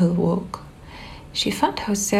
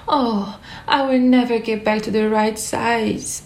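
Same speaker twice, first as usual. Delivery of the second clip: mild cry; 3 semitones higher than usual. Acted. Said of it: "Alice cried".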